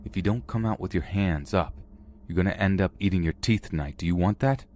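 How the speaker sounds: mildly intimidating warning; understated tough-guard threat. Acted. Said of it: "sounding as intimidating as possible".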